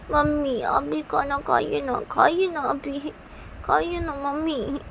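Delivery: put-on high, slow, drawn-out child pleading; coaxing little daughter. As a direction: wheedle mother in a child's voice. बच्ची माँ को मनाती है. (माँ को मनाती बच्ची की महीन आवाज़)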